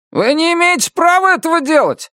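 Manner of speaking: high, outraged protest; indignant neighbor. A narrator's reading. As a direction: demand it like he's been wronged. Angry neighbor confronts Annabelle. (возмущённый сосед)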